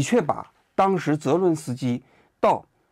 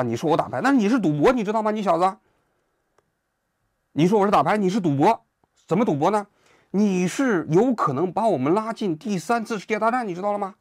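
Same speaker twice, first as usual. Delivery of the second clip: raised, higher mock rebuke; imitating an annoyed Trump; 5 semitones higher than usual. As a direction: scold him like a riled-up Trump. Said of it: "结果川普就恼了". (模仿川普恼火地抬高嗓门训斥)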